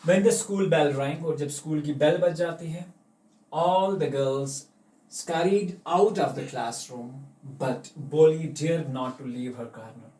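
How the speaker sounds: slow, deliberate English read-aloud; slow story reading. A narrator's reading. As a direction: read each phrase slowly like a storybook. Reading story text aloud slowly.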